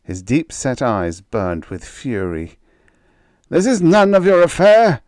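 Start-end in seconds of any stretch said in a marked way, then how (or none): 3.5-5.0 loud, much higher angry retort; snapped. A narrator's reading. Scientist telling the captain to back off, angry loud snap. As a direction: cut him off coldly. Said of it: "Renzo snapped".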